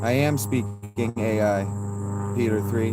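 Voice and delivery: slow, strange robot voice. Pretend. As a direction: speak like a machine. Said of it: "I are robot".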